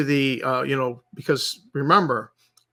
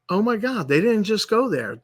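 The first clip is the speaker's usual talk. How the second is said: higher-pitched replay of his shock; higher disbelief; 6 semitones higher than usual. Retold or imitated. Retelling his shock at the orc changes, pitched higher. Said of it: "and I was like".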